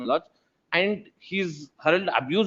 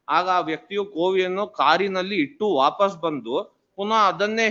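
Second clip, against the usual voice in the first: brisk read-out of a written complaint; reading aloud; faster than usual. Real, not acted. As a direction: read the statement into the record, quickly. Reads the complaint aloud in court.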